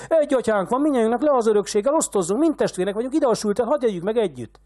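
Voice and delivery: very high, loud parody of chanting beggars; mocking the crowd. A narrator's reading. Old man parodying the beggars' cry, mocking. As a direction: ham up their slogans with scorn. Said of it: "úgy kiáltoztok".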